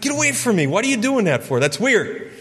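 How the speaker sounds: high, alarmed protest; startled recoil. Retold or imitated. Waking to friend's face inches away: high startled protest. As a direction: push him off, spooked. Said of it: "I'm like".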